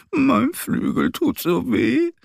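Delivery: hoch, langsam und klagend; jammerndes Vogelkind. Acted. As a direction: jammer wie ein verletztes Vogelküken. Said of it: "jammert der Kleinere". (klagendes kleines Vogelkind)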